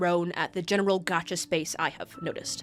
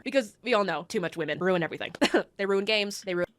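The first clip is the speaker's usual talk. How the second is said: sarcastic; faster than usual. Acted. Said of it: "My sarcastic tone".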